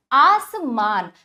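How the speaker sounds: आसमान slowly, with both आ sounds drawn long; slow stretched word. Shown as a demonstration. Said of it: "उसको खींच कर पढ़ा गया".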